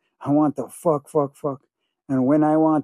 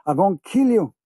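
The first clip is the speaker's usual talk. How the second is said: higher, half-shouted threat; mild shout; 4 semitones higher than usual. Retold or imitated. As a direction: threaten the girl. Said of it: "and shout".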